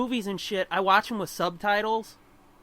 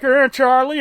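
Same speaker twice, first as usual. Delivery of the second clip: louder old-cartoon Magoo call; Magoo impression; 4 semitones higher, 9 dB louder than usual. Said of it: "Magoo will be like".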